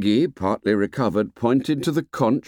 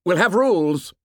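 put-on high, eager boy's cry; excited cry; 10 semitones higher, 4 dB louder than usual. A narrator's reading. Jack jumps up at the idea of rules, excited cry. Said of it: "he cried excitedly".

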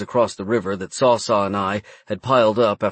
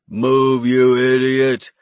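slow, louder goblin snarl; goblin driver yelling; 2 semitones higher, 4 dB louder, much slower than usual. Acted. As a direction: urge the troll on, goblin voice. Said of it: "the goblin driver urged".

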